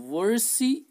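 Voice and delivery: VERSICIOLTI in high, loud, separated chunks; careful pronunciation. Shown as a demonstration. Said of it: "you can pronounce this word".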